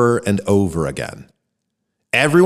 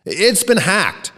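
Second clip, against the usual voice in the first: yelling; 10 semitones higher, slower than usual. Acted. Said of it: "a reporter yelled".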